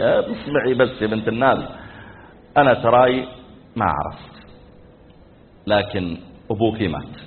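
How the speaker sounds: low, soft, with long pauses; subdued husband. Retold or imitated. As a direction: break the news gingerly, voice sinking. Husband gently breaks death news. (بصوت خافت متردد)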